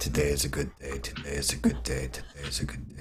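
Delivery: whispered, barely audible mutter under the breath. A player voices the character Viet during a game, muttering under his breath. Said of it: "Viet is muttering under his breath".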